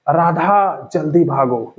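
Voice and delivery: राधा stretched on its vowels, slow mock call; drawn-out call. Shown as a demonstration. Teacher shows an emergency call to Radha, राधा drawn out. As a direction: demonstrate a long call on राधा without really shouting. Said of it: "आप खूब चिल्ला के बोलेंगे".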